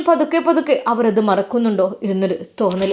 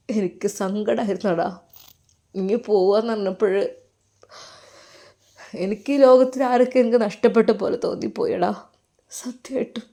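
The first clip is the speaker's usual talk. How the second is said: tearful teacher. Acted. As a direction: let the words catch as you hold back tears. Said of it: "കെട്ടിപ്പിടിച്ച് കരഞ്ഞു".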